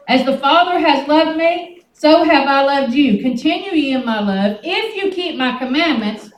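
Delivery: preaching scripture. Acted. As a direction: declaim each verse to the congregation.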